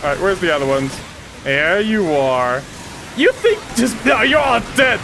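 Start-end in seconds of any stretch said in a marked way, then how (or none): 3.1-5.0 mock threat. Threatening enemies during game fight.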